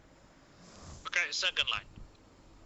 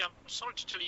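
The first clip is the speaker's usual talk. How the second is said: much softer, gently breaking bad news; soft sincere delivery; 8 dB quieter, faster than usual. Shown as a demonstration. Doctor breaking bad news to a family, softly and sincerely. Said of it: "tell that, okay".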